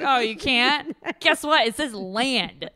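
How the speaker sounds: high, loud snooty taunt; mocking the illiterate man with a snooty taunt; mocking snob voice. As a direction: sneer it like a snob waving a deed. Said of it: "And she was like".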